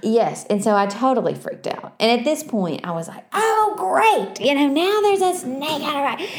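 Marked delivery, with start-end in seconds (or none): 3.3-6.3 sarcastic. Retold or imitated. Retelling sarcastic reaction to snake.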